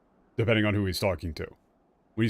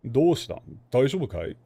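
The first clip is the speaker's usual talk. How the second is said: casual masculine Japanese; 4 semitones higher, 3 dB louder than usual. Retold or imitated. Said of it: "that's how he's talking".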